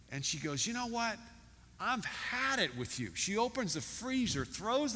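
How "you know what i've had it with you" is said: fed-up owner. Retold or imitated. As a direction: act out losing patience with a pet. Fed-up owner snaps at parrot.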